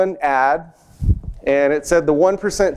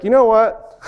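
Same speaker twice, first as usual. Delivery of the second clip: sarcastic; 6 semitones higher than usual. Retold or imitated. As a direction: sneer it like a mocking father. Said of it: "sarcastic laugh".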